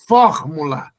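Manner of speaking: "Fórmula" punched, with the R clearly sounded; R pronounced. Shown as a demonstration. Proving all letters are pronounced, R sounded in "Fórmula". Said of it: "o R pronunciado".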